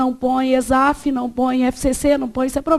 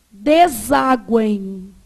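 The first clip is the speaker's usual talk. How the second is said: slow demo word; 5 semitones lower, much slower than usual. Shown as a demonstration. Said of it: "Vamos supor que eu tivesse essa palavra".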